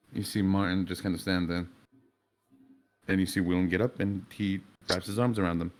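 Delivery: ordinary delivery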